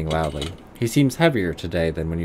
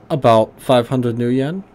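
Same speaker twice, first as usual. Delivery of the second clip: put-on gruff German accent, pitched higher; 5 semitones higher, 6 dB louder than usual. Old tinkerer greeting the player in a higher gruff German accent. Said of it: "high German voice".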